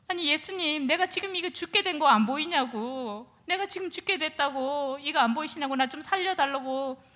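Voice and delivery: pleading, half shouting, demanding rescue; desperate plea. Retold or imitated. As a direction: insist loudly, a man fighting for his life.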